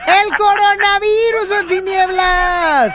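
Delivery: exasperated calling out. Real, not acted. Host protests the botched take.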